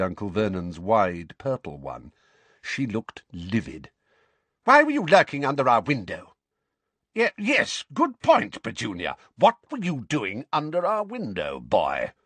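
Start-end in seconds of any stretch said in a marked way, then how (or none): 4.6-6.4 high, loud shrill accusation; livid Aunt Petunia. A narrator's reading. 7.1-12.1 high, stammering bluster; flustered Uncle Vernon. A narrator's reading.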